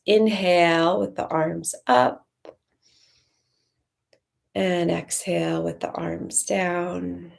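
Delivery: drawn-out breath cue with a long pause midway; guided breathing. Acted. Teacher cueing arm movement with the breath, unhurried meditation voice. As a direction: pace the words to a slow breath in and out.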